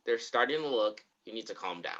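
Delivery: low, soft retold reassurance; George, calming down. George telling Atticus to calm down, quietly. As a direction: imitate a hushed, settling voice. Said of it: "George is like ... calm down".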